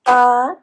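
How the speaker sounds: "uh" as a separate beat; isolated teaching syllable "uh"; first syllable sounded out. Shown as a demonstration. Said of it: "so they can sound out b".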